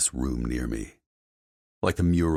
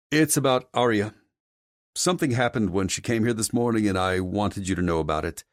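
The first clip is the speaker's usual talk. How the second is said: lightly voiced employee, pitched higher, reporting; a hint of earnest security man; concerned security chief; 7 semitones higher, 4 dB louder than usual. Security head reports an incident to his boss, earnest character voice.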